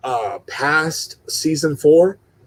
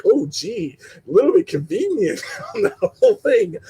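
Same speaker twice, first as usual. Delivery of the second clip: sarcastic; 12 semitones higher than usual. Retold or imitated. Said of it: "it's kinda a little bit like".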